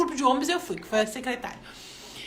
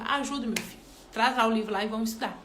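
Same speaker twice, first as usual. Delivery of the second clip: gentle mother; 4 semitones lower, 4 dB quieter, faster than usual. Retold or imitated. Mother agreeing to help.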